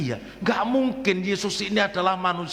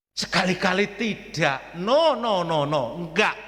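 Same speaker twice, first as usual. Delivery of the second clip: Peter's spontaneous refusal, mildly voiced; a light mock protest from Peter; Peter refusing. Peter refuses Jesus washing his feet, mild protest. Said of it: "Iki sifatnya Petrus".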